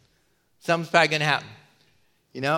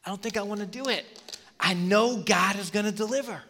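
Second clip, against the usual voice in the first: muttered excuses; 10 dB quieter than usual. Retold or imitated. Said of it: "And he's like".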